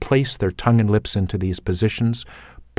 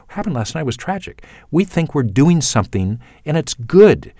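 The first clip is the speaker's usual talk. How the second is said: Canadian delivery; 5 semitones higher, 3 dB louder than usual. Shown as a demonstration. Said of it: "as a typical Canadian".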